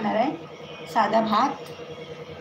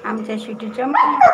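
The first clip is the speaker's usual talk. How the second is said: louder, rising call on मम्मा; louder call to the dog; 6 dB louder than usual. Real, not acted. Cooing to the dog twice.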